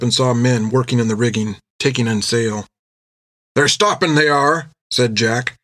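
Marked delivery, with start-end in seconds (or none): 3.5-4.7 higher sailor voice, musing; half to himself. Acted. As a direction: say it half to yourself. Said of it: "half to himself".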